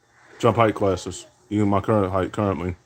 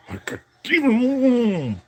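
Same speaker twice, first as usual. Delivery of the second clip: high mock call; 14 semitones higher, slower than usual. Hyped call after dunk.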